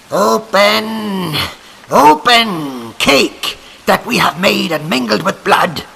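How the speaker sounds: loud raging shriek of the witches; witches crying again. A narrator's reading. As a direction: scream the demand at the cake. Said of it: "they cried again".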